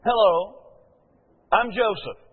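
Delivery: hammed-up newlywed hello; Joseph's greeting. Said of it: "He looks at her and says".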